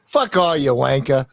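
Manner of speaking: mock Londoner. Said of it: "London would just say".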